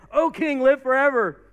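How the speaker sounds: loud, high call from down in a pit; voice echoing out. Acted. Daniel answering the king from the lions' den, calling out. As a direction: send it ringing up to the king. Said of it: "his voice echoed out of the lion's den".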